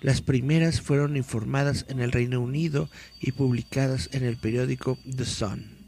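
dramatic read-aloud of a mystery article. Acted. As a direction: read it like a creepy news report.

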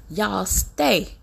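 very slow, trailing off on "from out these parks"; stretched, heavy warning that fades at the end; slow, emphatic warning. Shown as a demonstration. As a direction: spell it out word by word. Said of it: "I'm saying it just like this".

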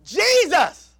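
slow, loud cry of the blind men; blind men's plea. Retold or imitated. Preacher voicing blind men, loud pleading cry. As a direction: call out the title. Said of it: "They said".

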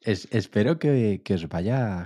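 clearing the throat and pushing on; pushing through a failing voice. Real, not acted. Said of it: "perdón, que no tengo voz".

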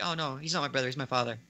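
offhand, understated delivery; imitated casualness. Imitating a character casually dropping a bombshell, offhand. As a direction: toss it off as if it were nothing. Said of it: "have it be casual".

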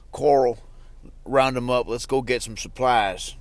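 badly faked TV hero voice; half-hearted character impression; Rick Grimes. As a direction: attempt a leader rallying the group, loosely. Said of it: "That's a really bad impression".

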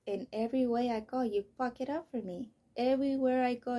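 loud, aggrieved accusation; bitter outburst of blame; angry at God. Retold or imitated. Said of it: "I started talking shit to God".

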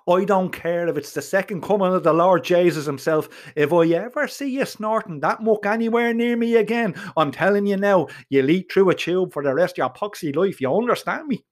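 heated threat without real screaming; fuming, restrained-volume tirade; mild mock screaming. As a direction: warn him angrily, pitch lifting in places. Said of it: "I was screaming at this stage".

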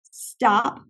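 calm, measured single word; composed, unhurried command. Retold or imitated. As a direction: say it evenly and without alarm. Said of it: "in a very calm voice".

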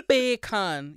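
lightly put-on Jamaican accent; two drawn-out syllables in a jokey Jamaican accent; mock Jamaican. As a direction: try a bad Jamaican accent. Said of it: "I'm speaking Jamaican".

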